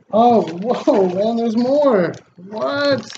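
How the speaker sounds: high, startled what; surprised. Real, not acted. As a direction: gasp out the question in disbelief. Finds even more gifts.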